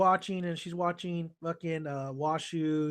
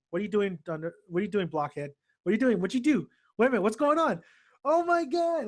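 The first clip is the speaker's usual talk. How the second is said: building from usual pitch to high exasperation; getting frustrated; 4 semitones higher, 3 dB louder, faster than usual. Retold or imitated. Washu questions blockhead Mihoshi at the keyboards, getting frustrated. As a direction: imitate rising frustration, question after question. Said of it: "Washu's just getting frustrated".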